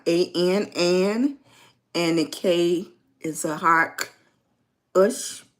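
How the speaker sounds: An, then Ush, each piece said slowly and apart; breaking a name down. Shown as a demonstration. Host sounding out viewer's name Ankush, syllable by syllable. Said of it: "I'ma go and break it down".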